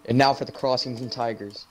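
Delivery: low, measured player introductions; PA announcer. Pretend. Announcer as the team runs out, low PA voice. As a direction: announce each number and name evenly. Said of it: "team's running out".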